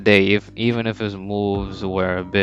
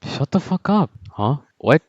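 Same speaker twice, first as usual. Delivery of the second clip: higher, sharp retort; mock snapping Isagi; 5 semitones higher than usual. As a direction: bite back at the trash talker. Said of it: "Isagi butts in and says".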